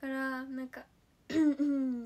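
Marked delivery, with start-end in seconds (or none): 1.3-2.0 throat clearing turned into casual hums; mock throat clearing to hide a cough on the train; faked throat clearing. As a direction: cover a cough with little hums. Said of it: "みたいな".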